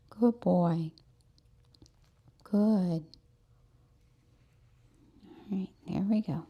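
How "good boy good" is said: quick hushed whisper; whispered praise. Real, not acted. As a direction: whisper it so he stays settled. Praising the dog mid-groom.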